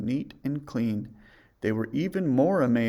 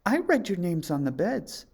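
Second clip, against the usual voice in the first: Snow White; 7 semitones higher than usual. A narrator's reading. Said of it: "said Snow White".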